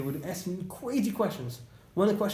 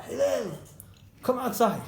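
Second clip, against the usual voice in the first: rude, raised call to come out; yelling; 4 semitones higher, slower than usual. Retold or imitated. Rude man yelling at Hillel to come out. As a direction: bark the order at the door. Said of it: "He yells at him".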